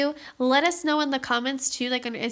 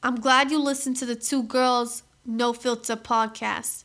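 a light, slow take on a chirpy Boston gal host; mock-cheerful podcast sign-off as a Boston gal, barely in character; Boston gal impression; slower than usual. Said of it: "my impersonation of being a ... Boston gal".

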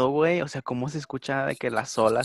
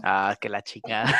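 startled curse; 2 semitones lower than usual. Real, not acted. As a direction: swear as you walk in, then squeal. Arriving to laughter.

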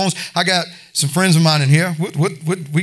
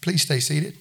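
a soft, humble request, much quieter; 2 semitones lower, 7 dB quieter, slower than usual. Shown as a demonstration. Preacher to congregation, humbly and softly asking. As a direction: ask them gently to stay put. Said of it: "I'm gonna be humble and say".

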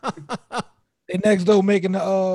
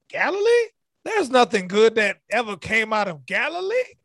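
mock-scandalized echo of the town's name; retold disbelief; 2 semitones higher than usual. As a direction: repeat it as an incredulous question. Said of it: "they said, "Where?".

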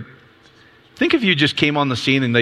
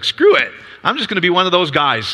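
defiant; 5 semitones higher than usual. Retold or imitated. Retelling a man's decision.

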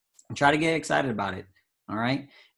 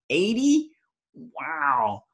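surprised; much slower than usual. Real, not acted. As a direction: squeak it out in disbelief. Reading huge fart ratings.

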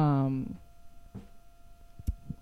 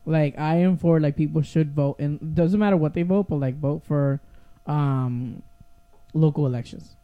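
talking while chewing gum. Real, not acted. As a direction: speak round a piece of gum. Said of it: "oh, but I have gum in my mouth".

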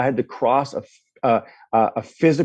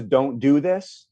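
slow inner warning; much slower than usual. Retold or imitated. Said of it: "that voice that says".

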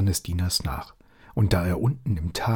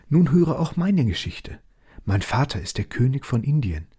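higher, sorrowful princess; owl princess voice; 4 semitones higher than usual. Acted. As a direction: tell it as a sad princess. Owl princess tells her story.

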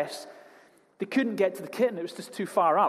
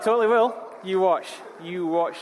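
mock defiant boast; 3 semitones higher, 4 dB louder than usual. Jokey boast about resolution.

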